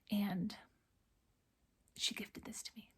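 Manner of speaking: very soft, half-whispered, holding back real tears; hushed and choked back, fighting not to cry; trying not to cry. Real, not acted. Stitcher showing Mom's gifted pillow, trying not to cry. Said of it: "I'm probably trying not to cry".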